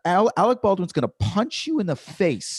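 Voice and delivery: emphatic, indignant stage rant; heckler rant. Acted. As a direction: challenge the heckler with mounting indignation. Performing the rehearsed rant at hecklers.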